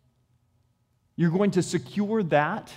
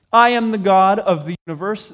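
booming God; 7 dB louder than usual. Acted. God's boast, preached.

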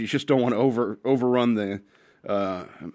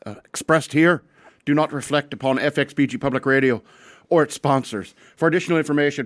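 slightly raised, projected announcer voice; radio disclaimer read; 3 semitones higher than usual. Acted. Host warning radio listeners before the show, projected disclaimer read.

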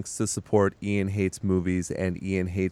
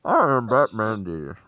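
mock Batman voice. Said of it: "cup your hands and do it".

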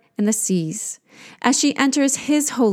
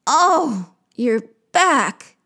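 echoed moan; 3 semitones higher, much slower than usual. Acted. Creatures echoing the queen's backache, moaning. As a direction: moan back in sympathy. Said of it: "They moan".

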